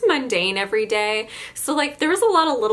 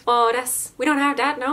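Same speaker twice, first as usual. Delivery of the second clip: put-on Newfoundland accent; 2 semitones higher than usual. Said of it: "in that voice".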